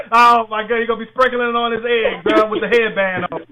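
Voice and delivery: laughing high through the words; giggling disbelief. Real, not acted. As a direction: crack up at the joke. Laughing at salt joke.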